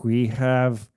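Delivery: low, evenly spaced countdown machine; mechanical announcer. A narrator's reading. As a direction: count down like a launch computer. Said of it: "a mechanical voice announces".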